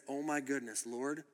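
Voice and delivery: low, hushed retold amazement; quietly stunned, voice dropped; mesmerized. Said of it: "for about half an hour mesmerized".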